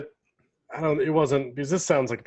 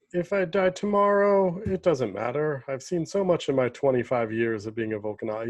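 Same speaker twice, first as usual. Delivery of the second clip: light put-on French accent; a hint of a French accent. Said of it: "That's my French accent".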